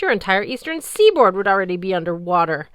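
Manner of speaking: loud, commanding sea goddess voice; imperious goddess. Acted. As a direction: speak down to a mere mortal.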